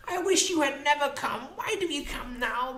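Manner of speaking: high-pitched, aggrieved woman's voice; bitter Molly. Acted. Molly blaming the unicorn for lost years, bitterly indignant. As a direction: reproach bitterly, pitched far above narration.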